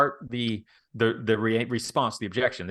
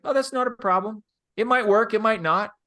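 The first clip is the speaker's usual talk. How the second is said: higher, breezy, no-pressure reassurance; easy and relaxed; 9 semitones higher than usual. Shown as a demonstration. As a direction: toss it off lightly, no pressure at all. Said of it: "See how easy I made that?".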